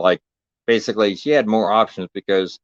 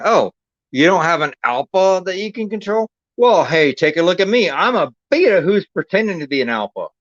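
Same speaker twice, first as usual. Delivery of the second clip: higher, hammed-up cocky come-on voice; mock smooth pickup line; 7 semitones higher than usual. Mocking himself to Kat as a wannabe alpha, hammed-up cocky voice. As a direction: parody a beta posing as an alpha, with a smirk. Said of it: "I'm sweeping in and going".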